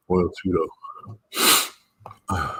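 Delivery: normal talking voice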